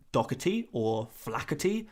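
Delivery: Doherty and Flaherty with a hard k in the middle; anglicised "DOCK-uh-tee" for Doherty, "FLACK-uh-tee" for Flaherty; k sound replacement. Shown as a demonstration. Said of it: "with the k sound in it".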